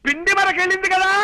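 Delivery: high-pitched, laboured announcing; exaggerated projected voice. Son-in-law tells deaf mother-in-law of a match, high projected voice. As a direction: spell out the news for a deaf listener. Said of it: "మామూలుగా చెప్పొచ్చు కదా".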